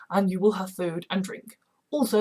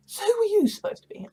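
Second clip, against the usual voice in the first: high sassy voice; 13 semitones higher, faster than usual. Acted. Sally sizing up Anna.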